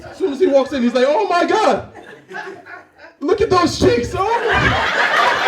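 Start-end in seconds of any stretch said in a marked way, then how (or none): 1.1-5.5 high squeal of mock delight; man cooing in an excited falsetto; gushing like a woman. Man walks into strip club, high gushing squeal. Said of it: "he sounds the same way as a woman who just saw a baby".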